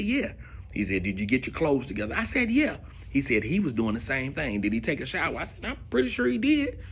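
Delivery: high, fed-up replies; exasperated answers. Retold or imitated. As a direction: answer like a cornered, annoyed friend. Exasperated answers to Jimmy's quiz.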